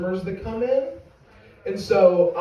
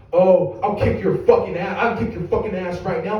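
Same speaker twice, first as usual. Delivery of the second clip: mildly raised, heated threat; angry threat; 4 dB louder than usual. Acted. Customer turns on smirking fifteen-year-old, threatening. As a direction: square up and threaten.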